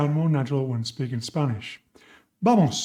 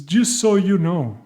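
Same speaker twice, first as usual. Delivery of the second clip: slow model phrase; 3 dB louder than usual. Shown as a demonstration. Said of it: "One more sentence is".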